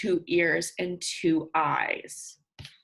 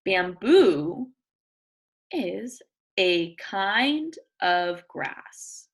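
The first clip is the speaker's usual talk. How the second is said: slow, clear read-aloud; reading to children; 3 semitones lower, much slower than usual. Acted. Teacher reading a picture book to her class. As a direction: read each word out for young listeners.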